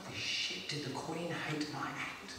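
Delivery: low, soft, slow muttered worry; hushed dismay. Acted. Comedian fearing the Queen hated his act, hushed dismay. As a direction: drop to an under-the-breath panic. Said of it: "and I'm like".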